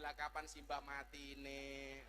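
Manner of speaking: cheeky retort. Retold or imitated.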